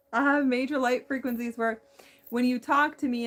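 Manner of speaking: loud robotic-sounding voice. Real, not acted. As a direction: speak like a humming machine. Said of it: "I am sounding more robotic".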